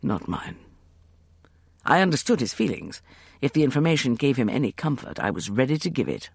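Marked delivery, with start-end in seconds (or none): 0.0-0.6 soft broken near-whisper; ragged whisper. Acted. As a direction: let the voice crack and fade. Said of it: "Sethos said in a ragged whisper".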